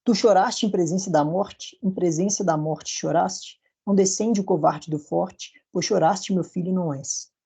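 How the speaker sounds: slow, measured recital of verse; poem recital. Shown as a demonstration. Teacher reciting Gonçalves Dias verses, slow and measured. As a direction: read the lines slowly, letting the rhythm carry. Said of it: "eu trouxe aqui esses quatro versos".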